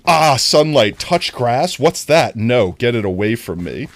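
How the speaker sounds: mock alarm at sunlight; hammed-up gamer horror; sun-fearing gamer. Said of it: "Gamers be like".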